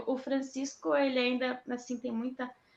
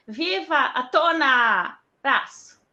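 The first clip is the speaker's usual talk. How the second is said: daughter's imitation; 2 semitones higher, 8 dB louder, slower than usual. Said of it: "ela fala".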